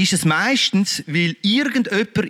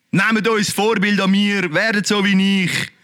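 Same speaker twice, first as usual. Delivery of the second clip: mocking quote. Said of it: "Und der hat mich so aufgeregt".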